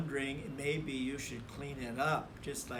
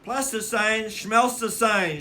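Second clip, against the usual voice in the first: loud, higher mocking retort; shouting; 9 semitones higher, 14 dB louder than usual. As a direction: brush him off with a yell. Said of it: "shouted Sister".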